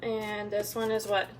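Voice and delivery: slow, patient quizzing question; kindergarten teacher voice. Real, not acted. Mother quizzing toddler on colors.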